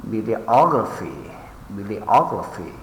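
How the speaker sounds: bibliography with OG lifted, then falling; bibli-OG-raphy, leaning on OG; stress on correct syllable. Shown as a demonstration. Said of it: "mark the stress on the correct syllable".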